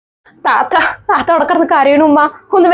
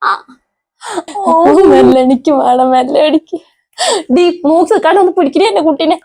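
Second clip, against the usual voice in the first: pained groaning. Acted. Daughter groaning with pain.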